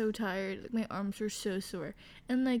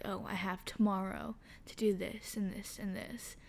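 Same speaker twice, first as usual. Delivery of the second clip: whispered inner voice; 2 semitones lower, 5 dB quieter than usual. Retold or imitated. Quoting own lazy inner voice.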